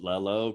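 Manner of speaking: "lello" with an L replacing the Y; little kid's "lello" for yellow; childish mispronunciation. Retold or imitated. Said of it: "too old to be saying lello".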